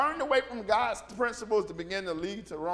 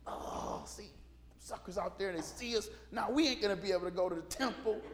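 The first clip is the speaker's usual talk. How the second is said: hushed disciples; 7 dB quieter than usual. Retold or imitated. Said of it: "disciples looking out the window going".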